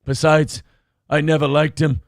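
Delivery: lightly comic Irish movie voice; Irish accent. Acted. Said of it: "That's my friend, Irishman".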